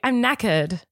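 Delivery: British accent, rising at the end; put-on British, not Irish. Shown as a demonstration. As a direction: correct it to a plainer British accent. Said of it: "You see, that's Irish".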